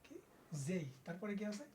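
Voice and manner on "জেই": জেই closing on an i glide; corrected glided J. Shown as a demonstration. Teacher repeating the correct J for pupils, gliding vowel. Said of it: "এটার উচ্চারণ কি?".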